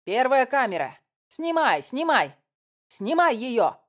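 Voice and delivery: high, urgent barked commands; barked order. A narrator's reading. Director orders the camera onto the woman, barking. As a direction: fire off orders to the crew. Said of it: "гаркнула Рудольф".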